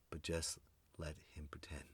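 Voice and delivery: soft, low hush to keep a secret; hushed humouring. Acted. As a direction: confide it under the breath. Acting hushed humouring of ex-president.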